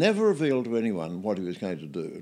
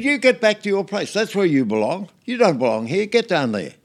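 much higher and louder barked order; angry shout; 9 semitones higher, 7 dB louder than usual. Retold or imitated. Jacoby shouting Whitlam back to his place, loud and high. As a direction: drive him away with a shouted command.

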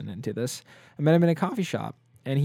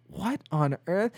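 higher, slow mock-British bafflement; imitating stunned teacher; 5 semitones higher than usual. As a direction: play the British teacher, completely blown. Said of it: "like, completely blown".

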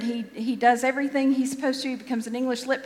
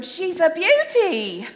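high, loud, drawn-out bad Australian accent; Steve Irwin; 7 semitones higher, 6 dB louder, slower than usual. Crocodile hunter admiring an ugly crocodile, excited bad Australian accent. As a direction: relish it slowly in a terrible Australian accent. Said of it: "I do a terrible Australian accent".

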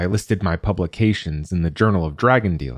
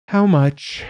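dragon asking; 10 semitones higher, 4 dB louder than usual. A narrator's reading. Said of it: "This dragon had the voice of a tenor".

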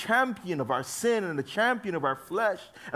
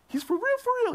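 emphatic for real; 5 dB louder than usual. Real, not acted. Emphatic repeat, high and loud.

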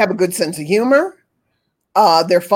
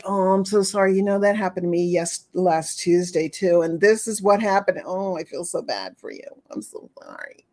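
hammed-up pitying sympathizer, fading to a breathy hush; exaggerated pitying voice, dying away; mock pity; 2 semitones lower, 5 dB quieter than usual. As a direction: gush fake sorrow, trailing off to a whisper. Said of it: "Pity is like".

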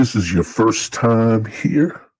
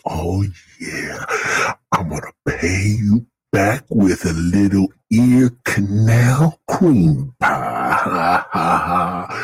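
sultry whisper; slower than usual. Pretend. Mock seduction of the listeners.

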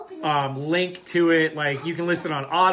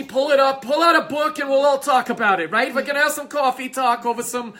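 talk show host; 7 semitones higher than usual. Pretend.

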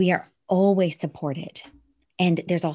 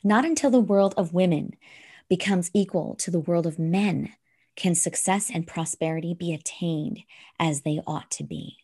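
measured recitation with deliberate pauses; solemn verse reading; poem reading. Acted. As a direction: read it out phrase by phrase, weighting key words. Resumes the poem after a slip.

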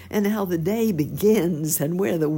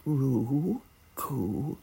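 dove cooing. A narrator's reading. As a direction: coo like a dove. Dove's cooing in story.

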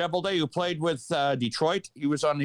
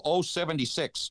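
bingo caller. Retold or imitated. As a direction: belt out the number like a bingo caller. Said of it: "you go to become a bingo caller and you go".

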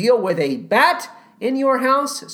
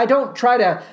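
ordinary delivery

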